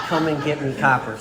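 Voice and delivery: toned-down fifties movie gangster line; old movie actor. Retold or imitated. Speaker mocking his drunk self, old movie actor voice. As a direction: lightly imitate a black-and-white film tough guy. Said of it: "nineteen fifty black and white actor".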